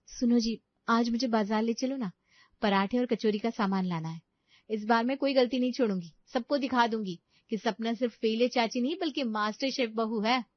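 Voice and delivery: eager wife. Acted. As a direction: announce your resolve to your husband. Voices Sapna urging her husband.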